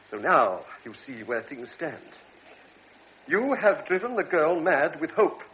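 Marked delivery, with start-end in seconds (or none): 3.3-5.4 stern reproach. Acted. Doctor reproaches the lieutenant.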